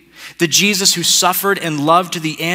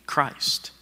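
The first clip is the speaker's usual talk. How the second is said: hushed; 9 dB quieter than usual. Real, not acted. Sermon point ends on the key word.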